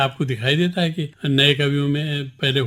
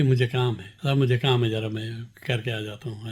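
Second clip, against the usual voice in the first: understated humility, trailing off softer; humble; 3 semitones lower, 4 dB quieter than usual. Shown as a demonstration. Poet excusing himself to a sahib, humble and quieter. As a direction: excuse yourself modestly, dropping your voice toward the end. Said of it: "इसमें विनय है, विनम्रता है".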